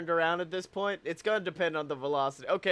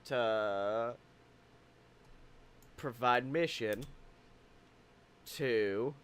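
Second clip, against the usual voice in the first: fake excuse; 7 semitones lower, 8 dB quieter, slower than usual. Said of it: "I'm trying to give a fake re".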